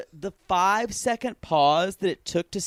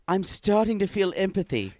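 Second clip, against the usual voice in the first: Grinch voice; 3 semitones higher, 3 dB louder than usual. Pretend. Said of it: "the way the Grinch talks".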